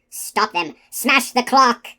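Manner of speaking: king's shouted order, rising in force; forceful royal bellow; shouting king. A narrator's reading. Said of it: "King Haggard was shouting".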